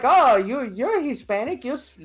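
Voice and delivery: high, loud caricature of strangers; imitating clueless strangers. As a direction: mimic a gawking stranger up high. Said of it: "I don't know why they speak like that".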